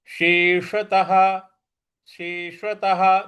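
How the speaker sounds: शेषतः with tongue curled for ष and ह at the end; retroflex sh. Shown as a demonstration. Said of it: "जीभ को रोल करके बोलेंगे". (मूर्धा से ष बोलते हुए शेषतः)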